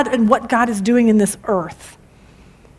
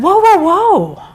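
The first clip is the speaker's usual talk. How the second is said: stopping her; 7 semitones higher, 5 dB louder, slower than usual. Retold or imitated. Mom stopping daughter's panic.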